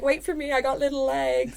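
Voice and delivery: put-on high, cutesy little-kid voice; tiny kid voice. Podcaster voicing the tiny rookie chasing the giant men, high kid voice. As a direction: squeak it like a small child trailing behind.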